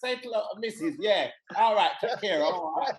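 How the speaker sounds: high, bright Cockney greeting, laughing through it; chirpy Cockney workman banter; mock Cockney accent. Son imitating dad's fake Cockney with white coworkers. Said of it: "same English accent like Don Cheadle".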